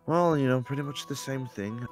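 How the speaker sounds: high, loud sales pitch; haggling merchant voice. Acted. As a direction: sell it like a hopeful farmer. Character haggling, voice jumps up.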